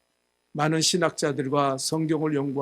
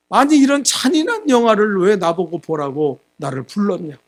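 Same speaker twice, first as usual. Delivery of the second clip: retold angry yell; 4 semitones higher, 6 dB louder than usual. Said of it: "소리를 버럭 질렀어요".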